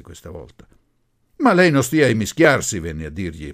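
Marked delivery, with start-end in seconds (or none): 1.4-2.8 loud, high, angry rebuke; quivering with anger. A narrator's reading. Son defending his mother, angry rebuke. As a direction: tell them off in anger. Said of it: "pallido e vibrante d'ira".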